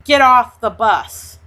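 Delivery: half-hearted shouted order; the black man yelling the racist off the bus, mild mock yell; retold scream. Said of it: "black man screamed at the white man".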